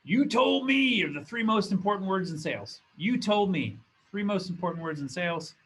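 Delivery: loud, high Southern motivational speaker; thick Southern accent. Retold or imitated. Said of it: "in a thick Southern accent".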